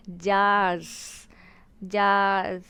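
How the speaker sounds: "जार्स" drawn out, ending in a light z; slightly buzzing ending. Shown as a demonstration. Teacher showing the plural sound, "जार्स" drawn out with slight buzz. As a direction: stretch "जार्स" into a long final sibilant. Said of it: "थोड़ा सा buzzing आ रहा है इसमें".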